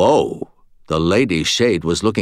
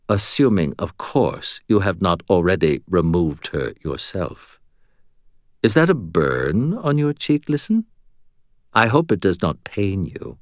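smug. Acted. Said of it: "Her voice became detectably smug".

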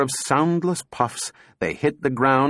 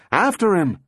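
high, urgent shout, moderately raised; wild shout; 8 semitones higher, 4 dB louder than usual. A narrator's reading. Donovan urging chase of the drifting robot, shouting wildly. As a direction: cry out wildly to give chase. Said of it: "Donovan shouted wildly".

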